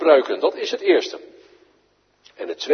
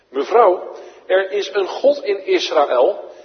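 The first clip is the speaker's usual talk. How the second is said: loving plea; 5 semitones higher, 6 dB louder than usual. Acted. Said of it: "met liefde, bewogenheid en hartelijkheid".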